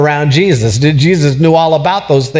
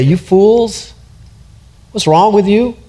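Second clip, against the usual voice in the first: higher, sharp scolding of the disciples; harsh scolding; 5 semitones higher than usual. Shown as a demonstration. Pastor shows how Jesus did not speak: harsh scolding. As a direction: scold them harshly, the wrong way. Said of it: "this is a gentle rebuke".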